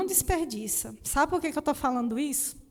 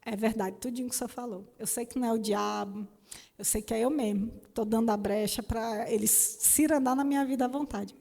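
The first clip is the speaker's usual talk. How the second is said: tearful plea. Retold or imitated. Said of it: "no auge do meu drama, do choro".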